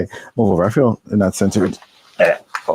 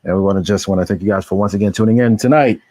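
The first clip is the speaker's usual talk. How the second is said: radio announcer voice; 2 semitones lower than usual. Real, not acted. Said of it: "Why I sound like a radio announcer?".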